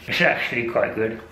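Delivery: talking through a mouthful of apple; chewing while speaking; mouth full. Real, not acted. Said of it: "I hate eating with my mouth full".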